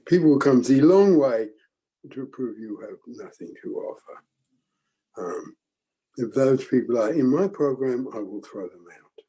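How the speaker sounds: lightly imitated German accent; a mild German-accented impression. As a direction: quote him with a touch of German, emphatic opening then falling away. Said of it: "in his heavy German accent".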